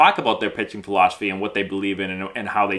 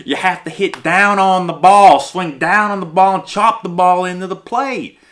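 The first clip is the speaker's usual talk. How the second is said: loud, higher-pitched coaching bark; insistent coach; 6 semitones higher, 6 dB louder than usual. Acted. Coach ordering a hitter to swing down, loud and insistent. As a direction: drill it in forcefully, voice raised.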